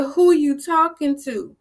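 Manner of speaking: indignant repeat. Retold or imitated. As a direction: repeat it pointedly, affronted. Repeats challenge to rep, retold.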